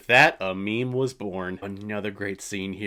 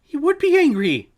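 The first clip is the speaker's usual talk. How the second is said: sarcastic; 8 dB louder than usual. Pretend. Sarcastic retort to movie.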